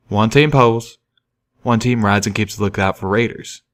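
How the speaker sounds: folksy train pony. Acted. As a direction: explain like a simple hick worker.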